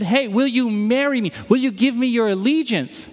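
a hint of a suitor asking; lightly voiced proposal. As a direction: ask it gently, like proposing. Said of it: "'Cause he said".

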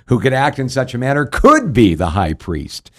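lightly acted sarcastic jab. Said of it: "Paul being sarcastic".

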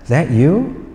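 tentative son. Retold or imitated. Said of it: "he looks up and he says".

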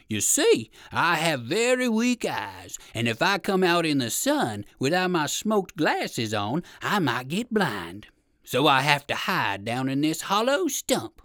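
drawn-out words from a hidden trickster; lightly voiced bear making excuses; slow, coaxing storybook villain; sly hidden bear.

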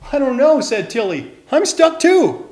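panicked. A narrator's reading. Both fish caught in net.

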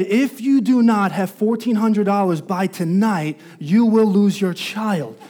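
retold ultimatum, slow and measured; official ultimatum. Agency warns mother about her child, slow retold ultimatum. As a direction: lightly voice an official's warning, word by word. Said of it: "C P S said".

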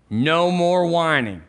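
drawn-out refrain. Shown as a demonstration. Repeats refrain for the congregation.

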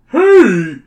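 sharp high shouted Hey; yell. Acted. Workman yelling at the superhero. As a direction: yell up at the hero from below. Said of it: "a voice yells".

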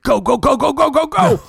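panicked getaway yelling; mock panic rising to a squeal; frantic urging. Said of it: "He's like".

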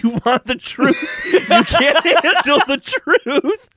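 laughing mock courtroom shout; hammed-up movie quote. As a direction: ham up the famous line. Quoting famous movie line, laughing.

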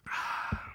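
relaxed breath out after a sip; contented sigh. Real, not acted. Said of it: "I'm relaxing".

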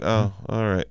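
usual speaking voice

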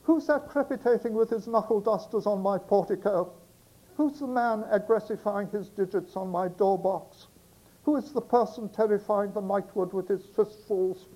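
high, put-on young girl's voice; a startled girl calling down at the knocking. Girl hears knocking at night, high girlish voice. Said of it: "the girl's voice for the girl".

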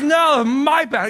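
loud, high, drawn-out mock outrage; angry refusal. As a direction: bellow the refusal slowly, acting angry. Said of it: "got angry".

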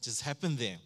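startled whoas, loud then fading; shocked at himself. Retold or imitated. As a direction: catch yourself in alarm. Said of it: "I'm like".

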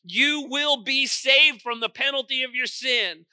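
forceful sermon delivery; emphatic preaching. Real, not acted.

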